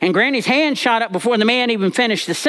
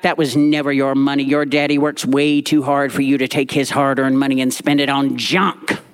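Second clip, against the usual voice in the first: granny snapping; 5 semitones lower than usual. Retold or imitated. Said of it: "And Granny snapped back".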